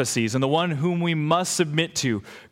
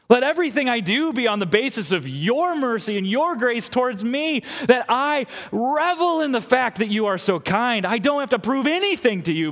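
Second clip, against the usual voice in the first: fervent prayer; 4 semitones higher than usual. Acted. Voices a fervent prayer to God.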